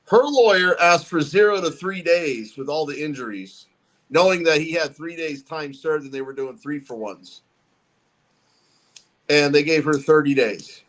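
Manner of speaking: distant, echoing room sound; echo chamber. Real, not acted. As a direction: far from the mic, echoing. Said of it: "you sound like you're real far away".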